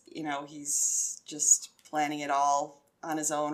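ordinary talk, nothing marked

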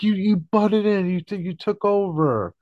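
hammed-up indignant rant at a friend; pissed-off George. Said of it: "flips out at him and all pissed off".

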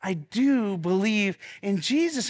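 slow call for the congregation to repeat; led confession. Shown as a demonstration. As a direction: pastor leading the church in a creed, deliberate. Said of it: "Say it again".

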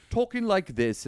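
a hammed-up, clumsy British accent; mock British accent, badly done. Host mocking the British accent of Robert Pattinson. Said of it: "another horrible British accent by me".

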